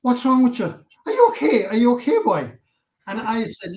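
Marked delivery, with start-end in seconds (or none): 0.0-2.5 concerned friend. Retold or imitated. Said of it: "Val was saying".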